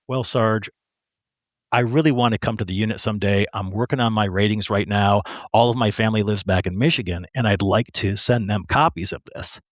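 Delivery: mildly hesitant, embarrassed request; a touch of hesitation in the voice; sheepish. Retold or imitated. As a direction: ask the boss sheepishly, pausing after addressing him. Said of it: "say very sheepishly".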